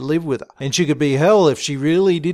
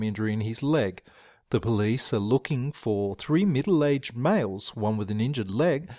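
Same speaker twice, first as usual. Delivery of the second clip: lower, measured newsreader delivery; radio news read; 5 semitones lower, 4 dB quieter than usual. Acted. Radio news bulletin in the story.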